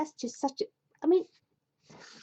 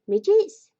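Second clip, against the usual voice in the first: much higher and louder, mock outrage; mock question; 11 semitones higher, 9 dB louder than usual. Real, not acted. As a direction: pop "Midgets?" up incredulously. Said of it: "mock incredulous question".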